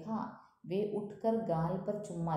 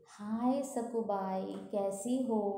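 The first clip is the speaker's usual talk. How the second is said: flirty memsahib; 3 semitones higher, slower than usual. Acted. Flirty memsahib greeting the maid.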